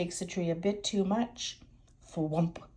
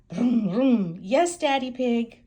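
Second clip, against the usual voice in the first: put-on excited child voice; 4 semitones higher, 7 dB louder than usual. Children answer in car.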